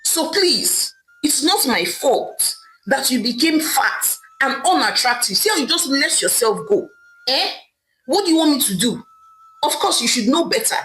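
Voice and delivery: dismissive husband, understated irritation; mildly angry. Acted. Husband brushing off his wife's tears, mildly angry. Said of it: "Okeke replied angrily".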